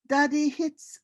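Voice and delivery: put-on a child telling the truth. A narrator's reading. Boy writing letter to king.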